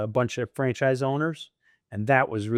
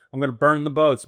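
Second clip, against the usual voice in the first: louder, determined announcement; retold bold declaration; 3 semitones higher, 6 dB louder than usual. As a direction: insist on it with force. Insisting to wife, retold.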